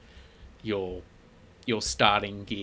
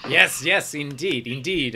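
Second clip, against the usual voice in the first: higher, louder eager merchant; eager shopkeeper; 4 semitones higher, 7 dB louder than usual. Acted. Shopkeeper eagerly answering the customer about robes, in an eager merchant voice. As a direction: oblige the customer with relish.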